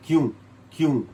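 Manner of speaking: क्यों with a nasalised ending vowel; nasal क्यों example. Shown as a demonstration. Teacher giving क्यों as a nasal example. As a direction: end क्यों in the nose, short and falling. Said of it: "उसमें नून गुन्ना लिखते हैं".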